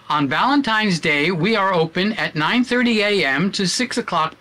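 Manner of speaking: phone greeting with every word carefully articulated; over-articulate the shop's recorded message for listeners; exaggerated enunciation. Shown as a demonstration. Florist recording for the answering machine, pronouncing everything with exaggerated care. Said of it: "I am exaggerating my mouth".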